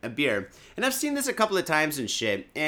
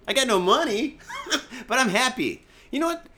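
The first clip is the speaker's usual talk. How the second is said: higher and louder through laughter; real laughter while talking; laughing; 10 semitones higher, 4 dB louder than usual. Real, not acted. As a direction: laugh it out, broke but happy. Laughs about being broke.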